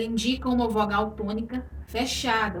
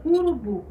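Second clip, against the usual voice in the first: urubu com a última sílaba, BU, mais forte; tônica em BU; 4 semitones higher, 5 dB louder than usual. Shown as a demonstration. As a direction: diga urubu marcando bem o BU final. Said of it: "Na sílaba bu". (urubu com ênfase no BU)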